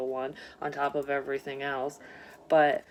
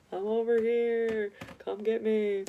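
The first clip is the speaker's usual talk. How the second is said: higher, slow, calling out for rescue; voicing the absent person; 6 semitones higher, slower than usual. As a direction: play the lost partner calling from afar. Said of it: "It's an S O S".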